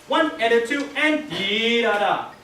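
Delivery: counting then dee da da with weight on dee; stressed dee in dee da da; accent on dotted eighth. Shown as a demonstration. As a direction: lean on the first dee. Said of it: "Put a little emphasis on that first dotted eight".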